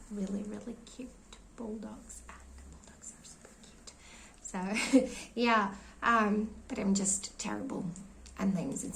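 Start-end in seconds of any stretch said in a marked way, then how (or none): 0.1-3.9 strained, failing voice; losing voice. Real, not acted. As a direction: voice fading to a whisper. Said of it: "And I'm losing my voice".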